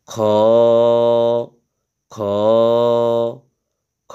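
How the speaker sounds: খ said with a rasp at the back of the throat; Arabic kha demo; rough kha. Shown as a demonstration. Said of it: "ওই খটা একদম শুধু".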